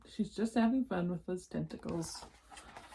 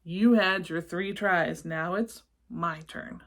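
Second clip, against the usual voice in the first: slow menacing monster; 5 dB louder than usual. Acted. Monster Gabe threatens.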